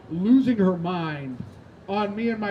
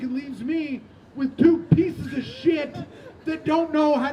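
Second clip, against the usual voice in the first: furious mom tirade; 5 semitones higher than usual. Retold or imitated. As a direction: rail at your sons as a fed-up mother. Mom's furious tirade at her sons.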